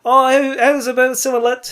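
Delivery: bad Canadian accent impression. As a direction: try a clumsy Canadian accent. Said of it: "I'm terrible with Canadian accent".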